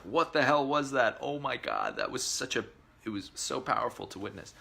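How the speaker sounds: stunned by what they just saw; amazed friends. Retold or imitated. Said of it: "they're just like".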